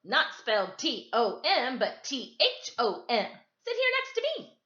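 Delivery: put-on loud, high eager boy calling out; gawky boy calling out loud; yelling boy. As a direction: shout it across the classroom, keen and gawky. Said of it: "yelled out".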